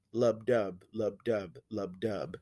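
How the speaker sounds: slow even heartbeat rhythm, fading; heartbeat imitation. Shown as a demonstration. Teacher illustrating the rhythm of our hearts, heartbeat imitation.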